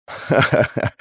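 breathy mocking ha-ha-ha; laughing it off with a smirk; smug laugh. A narrator's reading. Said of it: "Ухмылялся Свет". (насмешливый смешок)

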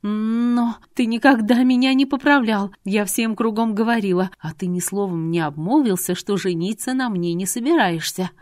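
a touch of flustered protest; uncertain Irina. Acted. Irina protests to Artur that he never corrected her, flustered. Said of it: "спесь на её лице уступила место неуверенности".

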